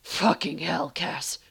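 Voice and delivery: growled curse, punched at the start. Acted. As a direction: curse at a lover in a mild growl. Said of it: "He growled".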